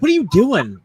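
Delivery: mock bewildered coworker; puzzled team. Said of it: "they're like".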